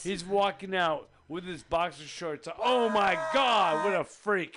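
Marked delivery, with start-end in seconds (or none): 2.6-4.6 loud, slow carnival barker cry; hammed-up sideshow announcer; barker shout. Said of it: "mock circus barker".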